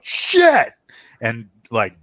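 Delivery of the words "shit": high, loud startled curse; crew chief yell. Acted. Crew chief yelling as the pilot is hit. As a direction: blurt it out in shock. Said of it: "the crew chief yells out".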